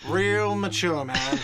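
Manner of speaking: loud whiny sneer; whiny shout. Acted. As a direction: yell it like a sulky kid. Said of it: "a whiny voice shouts".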